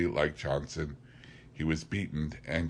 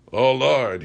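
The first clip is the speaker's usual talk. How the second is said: loud, higher panicked cry; 7 semitones higher, 9 dB louder than usual. A narrator's reading. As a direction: wail it out in terror. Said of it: "he cried".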